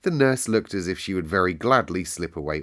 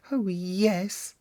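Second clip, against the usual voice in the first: put-on boy's voice; 12 semitones higher than usual. A narrator's reading. Colin answers appealingly.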